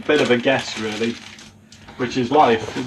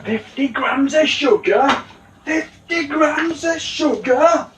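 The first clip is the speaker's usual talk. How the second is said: much higher, slow disbelieving question; incredulous; 13 semitones higher, slower than usual. Pretend. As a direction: repeat it in mock disbelief. Incredulous high repeat.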